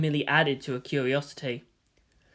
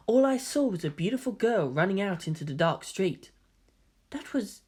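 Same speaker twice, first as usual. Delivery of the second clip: put-on softer, higher gentle boy voice; gentle young man; 3 semitones higher, 4 dB quieter than usual. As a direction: explain softly and kindly. Voices Kaoru explaining.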